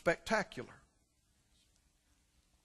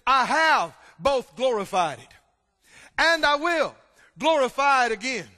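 a hint of a booming heavenly voice, louder; 3 semitones higher, 8 dB louder than usual. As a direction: proclaim it like a voice from heaven. Voice out of heaven speaks.

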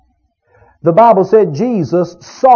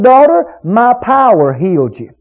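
"power" leaned on after a raised "Daughter"; stress on POWER; 2 semitones higher than usual. Shown as a demonstration. Preacher giving what Jesus could have said, stress on "power". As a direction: put the weight on "power". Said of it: "he didn't put the emphasis there".

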